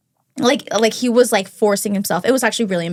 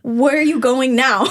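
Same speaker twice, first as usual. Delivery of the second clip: laughing disbelief; 2 semitones higher than usual. Real, not acted. Date asks where she's going.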